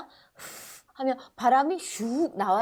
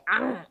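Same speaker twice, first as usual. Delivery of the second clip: lip bite sound. Shown as a demonstration. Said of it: "하고 깨물 수 있죠".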